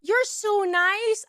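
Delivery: very slow, high, woozy compliment; drugged-out gushing. Retold or imitated. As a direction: draw out each word adoringly. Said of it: "me being fucking drugged out of my mind".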